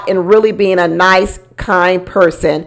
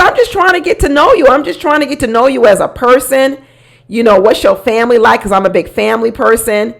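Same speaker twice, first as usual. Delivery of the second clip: pleading David; 3 semitones higher than usual. Retold or imitated. Quoting David pleading gently.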